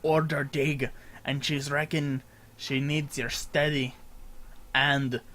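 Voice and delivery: NPC voice. Acted. Streamer voicing a sailor NPC greeting the player, hearty accent. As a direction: boom out a welcome like a ship's mate. Reading NPC dialogue aloud.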